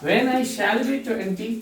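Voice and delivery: very slow, each word set apart; teacher dictating the wrong version slowly; slow dictation. Shown as a demonstration. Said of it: "ABC करके समझाने".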